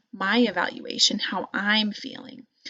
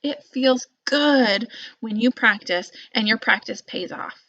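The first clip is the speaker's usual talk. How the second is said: encouraging; 4 semitones higher, 4 dB louder than usual. Shown as a demonstration.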